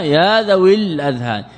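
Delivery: ذوي joined to الأذهان with its long ī dropped; ya not pronounced. Shown as a demonstration. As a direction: run ذوي into الأذهان on a short i. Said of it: "تكتب الياء ولا تنطق بها". (وصل ذوي بالأذهان دون نطق الياء)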